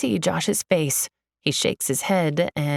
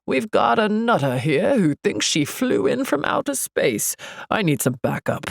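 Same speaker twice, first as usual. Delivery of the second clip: guard calling in on a walkie-talkie; put-on security officer voice; officious security guard; 3 semitones higher than usual. A narrator's reading. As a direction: report a troublemaker over the radio. Guard radios for backup.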